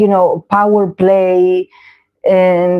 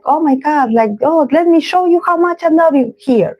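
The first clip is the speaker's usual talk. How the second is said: much higher, hammed-up lovey-dovey gush; mock gushing performance; 9 semitones higher than usual. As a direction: overact the devotion as a parody. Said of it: "do a performance, you know, where I'm like".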